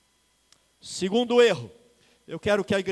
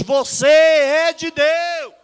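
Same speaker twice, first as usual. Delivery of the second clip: slow, louder, higher final shout; preaching shout; 7 semitones higher, 11 dB louder, much slower than usual. Real, not acted. Pastor crying out to the congregation, slow shout. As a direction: hammer it home to the church.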